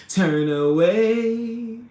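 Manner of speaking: loud, drawn-out movie quote; movie line impression. Streamer quoting a favorite movie, loud drawn-out imitation. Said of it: "you know that part".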